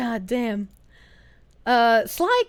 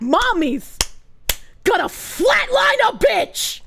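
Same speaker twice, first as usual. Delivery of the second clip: mock threat yell; 3 semitones higher, slower than usual. Joking threat leaving stream.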